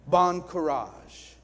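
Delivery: French villagers murmuring Bon courage. Retold or imitated. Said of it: "They were whispering".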